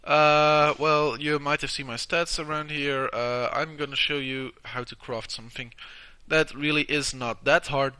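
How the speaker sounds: blocked nose from tissue; tissue up one nostril. Real, not acted. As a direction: talk with a plugged nostril. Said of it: "tissue in my nose since I do have a nosebleed".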